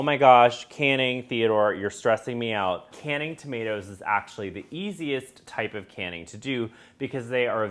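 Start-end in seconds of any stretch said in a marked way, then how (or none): 0.0-2.9 a hammed-up panicked viewer, loud on the gosh; mock freak-out. Viewer panicking about canning, mock freak-out. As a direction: play the overwhelmed beginner in mock panic. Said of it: "don't worry if you're freaking out".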